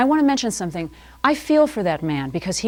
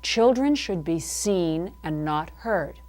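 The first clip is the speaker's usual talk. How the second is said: prim proverb; 3 semitones lower, 4 dB quieter, slower than usual. Retold or imitated. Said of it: "that wonderful phrase".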